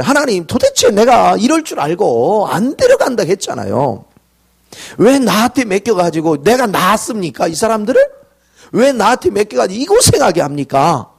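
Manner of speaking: mock outburst of aggrieved protest; worked-up complaint to God. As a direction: complain to God like an exasperated leader. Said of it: "흥분하기 시작했어요".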